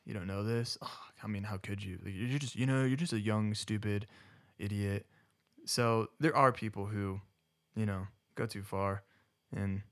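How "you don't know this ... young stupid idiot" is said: softly acted, incredulous put-down; mock someone talking down to a newcomer, under your breath; condescending scorn. Churchgoer belittling a newcomer to liturgy, mock condescending. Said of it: "better way than being like".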